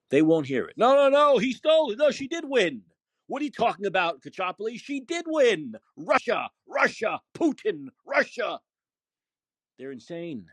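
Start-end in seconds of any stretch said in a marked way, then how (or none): 0.8-8.6 high-pitched mocking voice of his friends yelling Russia; mock hysterical friend. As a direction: parody a frantic denier. Mocking friends who deny the result.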